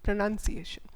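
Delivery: "pronunciation" with "nun" in the middle; pronunciation with N sound. Shown as a demonstration. Teacher telling learners the sound, "pronunciation" with "nun". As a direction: say "pronunciation" as pro-nun-see-ay-shun. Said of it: "it is N".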